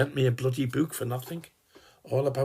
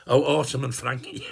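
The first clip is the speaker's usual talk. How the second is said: laughing; 2 semitones higher, 3 dB louder than usual. Real, not acted. Laughs correcting the name.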